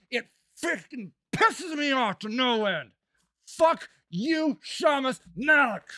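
fed up and furious; really mad. Real, not acted. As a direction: let real anger out on the name. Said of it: "Makes me really mad".

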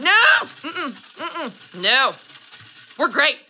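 high, tight mm-mm denials; insisting nothing's wrong to a spouse; fake denial. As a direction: hum a stubborn no.

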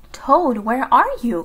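loud storybook call. A narrator's reading. Frog looks for Toad in the dark house, calling. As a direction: call out to find someone. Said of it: "called Frog".

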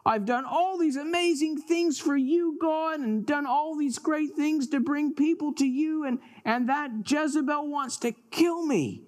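high, pleading protest; aggrieved complaint. Acted. Elijah in the cave complains to God, aggrieved and high. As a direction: pour out grievances, pitched high.

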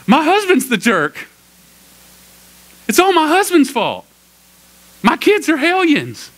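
high, loud, drawn-out complaining wife; woman's voice. Retold or imitated. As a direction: whine it like a fed-up wife in a mock female voice. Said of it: "I need to do a woman's voice".

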